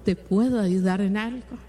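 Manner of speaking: gentle, sincere offer of help; kind offer. Shown as a demonstration. Preacher showing the right way to answer a tired spouse, gentle offer. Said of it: "esa no es la forma".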